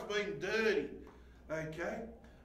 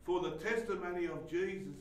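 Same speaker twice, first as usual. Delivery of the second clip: scripture reading. Acted. Reading scripture aloud quietly.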